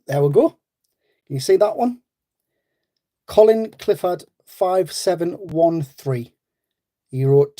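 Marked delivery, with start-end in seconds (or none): 3.3-6.3 slow, spelled-out winner announcement; slow winner reveal for the viewers; announcing the winner. Shown as a demonstration. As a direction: read the name out slowly, every syllable clear. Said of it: "pick a random winner".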